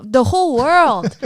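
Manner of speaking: loud, emphatic declaration; convicted and excited. Real, not acted. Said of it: "convicted and excited".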